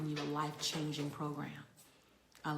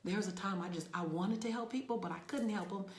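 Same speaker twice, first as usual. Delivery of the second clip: emotional; 5 semitones higher than usual. Real, not acted. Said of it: "I get emotional".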